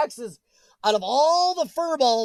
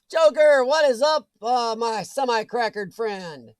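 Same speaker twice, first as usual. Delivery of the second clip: loud greeting; 5 dB louder, slower than usual. Real, not acted. Greeting a chat viewer.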